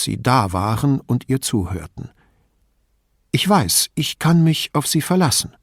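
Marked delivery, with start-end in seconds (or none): 3.3-5.6 put-on higher-pitched voice of a griping old lady; old lady, indignant and chatty; old signora. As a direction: play the suspicious old woman complaining about thieves. Old signora trusts them.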